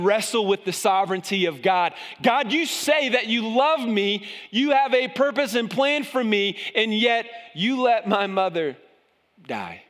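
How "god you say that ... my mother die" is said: high, pleading cry to God, dropping to a hush on die; anguished prayer. Acted. Grieving believer crying out to God, high and pleading. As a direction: plead with God over a mother's death.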